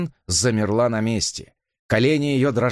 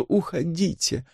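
slow, falling, softer «уходите»; languid plea; 8 semitones higher, 3 dB quieter, slower than usual. A narrator's reading. Elisa begs again, languid and fading. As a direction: sigh «уходите» away, drawn and fading. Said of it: "томно взмолилась Элиса".

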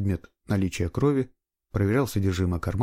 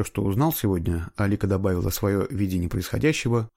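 ordinary delivery, nothing marked

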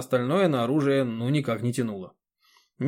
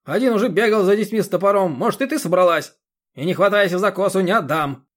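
high, loud irritated lecturing; a rough man yelling at a deaf old woman; loud scolding yell; 6 semitones higher, 7 dB louder than usual. A narrator's reading. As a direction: scold her at full volume.

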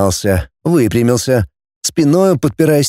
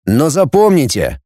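threatening; 3 semitones higher than usual. Acted. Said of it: "с угрозой добавил он".

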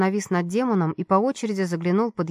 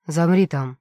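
guard shouting; 2 semitones lower, 4 dB louder, slower than usual. Acted. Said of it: "крикнул охранник".

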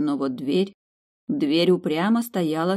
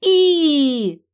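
high, loud heave cry; loud high heave again; effort heave; 11 semitones higher, 8 dB louder than usual. Acted. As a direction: shout the pull. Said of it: "снова провозгласили подруги".

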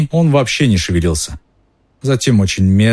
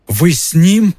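shocked question; 9 semitones higher, slower than usual. Acted. Hermione shocked at Lupin.

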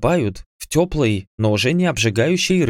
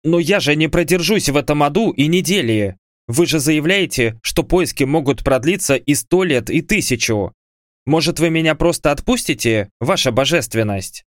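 desperate exclamation; 5 semitones higher than usual. Acted. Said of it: "громко воскликнул, стараясь придать побольше отчаяния".

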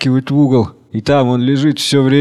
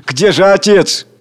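slow, higher calling; anguished call; 6 semitones higher, 4 dB louder, slower than usual. Acted. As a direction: cry out for the father. Crowd calling for father.

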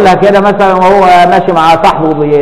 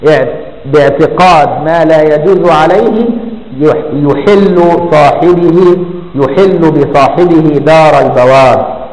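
slow text reading; 2 semitones lower, much slower than usual. Acted. Sheikh reading the book to his class, slow and measured. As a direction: recite the classical line slowly and evenly.

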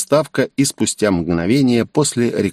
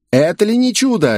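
shrieking host; 12 semitones higher than usual. A narrator's reading. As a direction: squeal it out like a gaudy presenter. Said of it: "верещал цветастый ведущий".

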